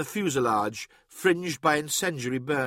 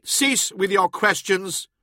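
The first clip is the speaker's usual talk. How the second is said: slow, higher-pitched command; stern rebuke; 6 semitones higher, 4 dB louder, slower than usual. A narrator's reading. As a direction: shut the questioner down slowly and firmly. Warrior cuts off the artificer's questions.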